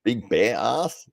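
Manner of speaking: Big bear ass? slow, with a questioning rise; puzzled echo. Real, not acted. Echoing a viewer's prank name, slow and puzzled. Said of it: "What are you talking about?".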